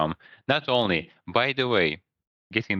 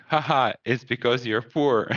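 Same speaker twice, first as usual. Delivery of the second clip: higher, jeering imitation of a laughing customer; mocking laugh; 5 semitones higher than usual. Customer laughs at waiter for being poor, mocking laugh. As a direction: imitate someone laughing down at you. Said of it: "laugh, like".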